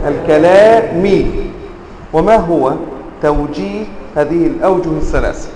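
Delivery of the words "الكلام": "الكلام" said slowly as al-kalāmi; genitive ending. Shown as a demonstration. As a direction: finish "الكلام" on i. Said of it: "أن تقول".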